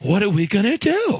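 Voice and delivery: lightly hammed-up Italian-American worry; Italian guy accent. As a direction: imitate a Long Island Italian guy's helpless question. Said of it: "he was this guy who talked like this, Italian guy".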